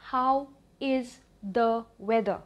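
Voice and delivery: slow, spaced teaching delivery; word-by-word model. Shown as a demonstration. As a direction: split into separate words with pauses. Repeated word by word for learners.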